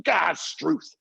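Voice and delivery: Irish dad's curse, pitched high; drawn-out Irish-accented oath, imitating dad; thick Irish accent. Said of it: "throw a tool across the garage".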